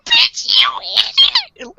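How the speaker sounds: very high squealed scolding; hammed-up exasperated shriek; mock outrage.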